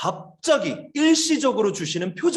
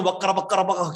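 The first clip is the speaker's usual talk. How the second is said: rapid nonsense syllables, imitating; mock tongues babble. Teacher imitating people at a noisy prayer retreat, mock babble. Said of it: "방언 소리 듣는 게 너무 힘들었어요".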